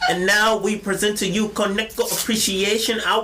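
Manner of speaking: hyped-up show announcer intro; a light game-show host voice; mock announcer. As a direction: hype the crowd like a host. Announcing an appreciation hour.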